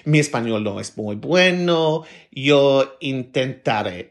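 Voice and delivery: careful learner's Spanish, "intentaré" drawn out slowly; a modest foreigner trying her Spanish; slow Spanish phrase. Retold or imitated. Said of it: "start all my conversations with".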